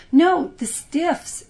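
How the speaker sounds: high, loud, slow drawn-out protest; crying out. Acted. Other sister insisting on her pick, loud drawn-out cry. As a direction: stretch it out loudly, insisting. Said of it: "cried his sisters".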